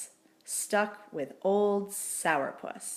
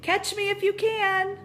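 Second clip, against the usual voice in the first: high, loud playful taunt; taunting squeak; 13 semitones higher, 6 dB louder than usual. A narrator's reading. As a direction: dare him to chase you.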